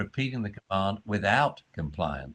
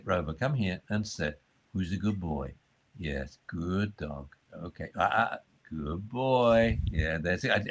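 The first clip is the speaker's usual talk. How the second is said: calm praise to dog; 4 semitones lower than usual. Shown as a demonstration. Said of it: "I do it with my voice like this".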